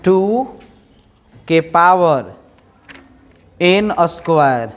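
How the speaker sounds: "टू के power" with pauses between words; spaced dictation. Shown as a demonstration. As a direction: pause after each word of the formula. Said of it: "एक ही formula है". ("टू के power N" रुक-रुक कर)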